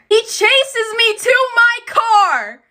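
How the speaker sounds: high-pitched, breathless-sounding escape story; frantic retelling. Retold or imitated. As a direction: tell the chase in a rising panic. Frantic retelling of being chased.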